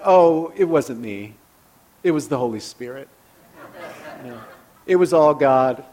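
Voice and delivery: false humility. Retold or imitated. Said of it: "kind of a false humble".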